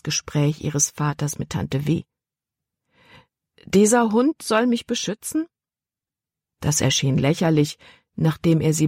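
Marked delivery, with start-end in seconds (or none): 3.6-5.5 put-on high doubting girl's question; can't believe it, higher; incredulous. A narrator's reading. Girl doubts the dog can protect her, incredulous.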